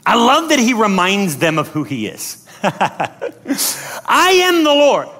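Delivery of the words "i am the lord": very slow, stretched proclamation; booming declaration. Acted. God reminding them who he is, grand declaration. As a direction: proclaim it grandly, every word drawn out.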